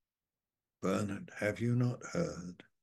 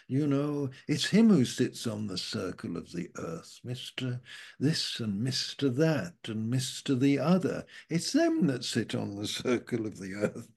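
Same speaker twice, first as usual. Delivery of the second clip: lightly sarcastic, teasing the idol makers; a hint of scornful irony, quick at first; mock sarcastic prophet; 3 semitones higher than usual. Preacher voicing the prophet mocking idol makers, lightly sarcastic. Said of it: "the prophet is being a bit sarcastic".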